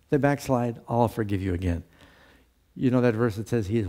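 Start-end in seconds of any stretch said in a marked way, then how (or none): 0.9-1.8 resigned forgiveness. Retold or imitated. Voicing God forgiving again.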